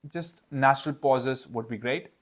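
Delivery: ordinary talk, nothing marked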